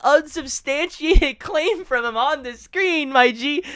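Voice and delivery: high, loud, scornful yelling; exasperated rant. Real, not acted. Scolding the streamer in the clip, high exasperated yelling. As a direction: shout him down, laughing at the idiocy.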